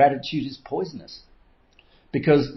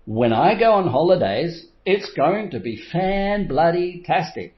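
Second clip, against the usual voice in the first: mock excitement; 5 semitones higher than usual.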